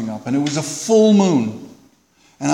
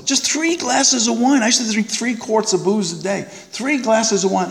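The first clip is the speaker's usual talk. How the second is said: slurred tipsy whine, higher; mock drunk voice; lightly slurred wine-drunk voice; 5 semitones higher than usual. Mocking his own drunken self.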